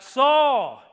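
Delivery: loud, high shout across a distance; yelling out. Retold or imitated. David shouts across the valley to Saul, loud high yell. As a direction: call his name out hard and high. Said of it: "and he yelled out".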